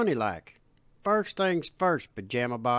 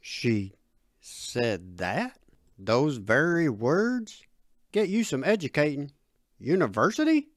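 low, stunned questioning; a touch of shaken disbelief; shake in voice; 5 semitones lower, 4 dB louder than usual. Acted. Dad repeats his daughter's dream words, low and shaken. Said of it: "With a shake in his voice".

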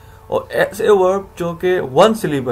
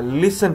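"लिसन" with weight on its first syllable; stress on first syllable; 3 semitones higher, slower than usual. Shown as a demonstration. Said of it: "जोर पड़ रहा है".

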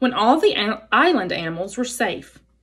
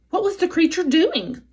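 higher, nervous little weasel; 9 semitones higher than usual. Acted. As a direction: ask it like a jittery weasel. Weasel asks.

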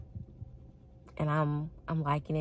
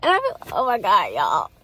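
gushing; 3 semitones higher, 7 dB louder than usual. Real, not acted. Gushing about him, laughing.

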